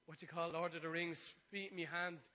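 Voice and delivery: loud preaching emphasis. Acted. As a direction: punch it out. Louder pulpit burst.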